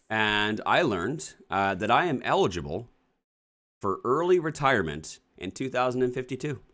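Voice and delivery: dismayed disbelief. Real, not acted. Dismayed at early retirement letter.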